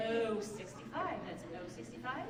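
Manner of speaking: slow drawn-out call; lightly voiced bingo caller. Shown as a demonstration. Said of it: "I could actually be a bingo caller".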